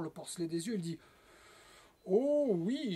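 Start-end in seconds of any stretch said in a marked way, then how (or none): 2.0-2.9 higher, swooping "oh oui"; drawn-out eager yes; overeager agreement. A narrator's reading. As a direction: agree far too keenly. Puppet eyeing baby greedily.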